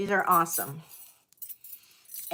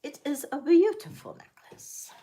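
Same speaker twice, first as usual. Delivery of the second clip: higher, brighter full-voiced praise; excited; 6 semitones higher than usual. Real, not acted. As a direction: say it out proudly. Repeats the praise out loud.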